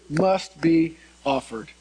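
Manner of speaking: "must" and "offered" weighted, slow and deliberate; slow, spaced stress on "must be offered"; emphasis on must and offered. Real, not acted. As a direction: lean on "must", then on "offered". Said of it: "putting the emphasis on must".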